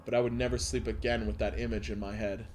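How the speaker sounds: measured read-aloud of a creepy tale; horror story narration. Acted. Reads horror story aloud to stream.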